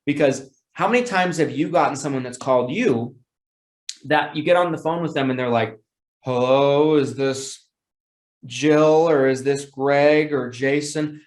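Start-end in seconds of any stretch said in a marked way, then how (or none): 6.2-11.2 bored caller. Retold or imitated. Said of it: "they just don't sound like they wanna be there".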